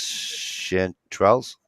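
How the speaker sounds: "Chanterelles" said slowly, syllable by syllable; careful pronunciation. Shown as a demonstration. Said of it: "Did I say it right?".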